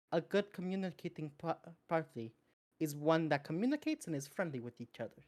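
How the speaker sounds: soft, kindly chiding; softly spoken, mild scolding; gentle reproach. Acted. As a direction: gently lecture a companion, keeping the volume down. Character gently lectures companion on friendship.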